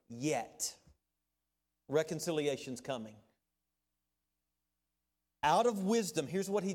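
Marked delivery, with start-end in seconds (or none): 0.1-0.7 "yet" set apart after a pause, pitched low; emphasis on "yet". Real, not acted. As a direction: let "yet" land alone, low and deliberate. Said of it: "catch my emphasis on this word".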